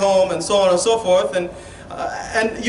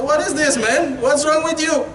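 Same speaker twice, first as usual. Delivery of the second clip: exasperated, higher-pitched scolding; retold telling-off, pitched up in exasperation; mad; 5 semitones higher than usual. Imam scolding a brother who sleeps all day, mad. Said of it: "When I'm mad".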